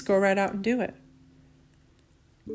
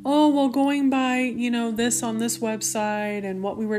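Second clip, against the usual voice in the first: mock doctor voice; 3 semitones higher than usual. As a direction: mimic the doctor's hesitant excuse, pitched up. Son's doctor quoted by mother.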